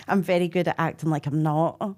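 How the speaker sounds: laughing while talking. Real, not acted. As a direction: laugh through the line. Laughs at own confession.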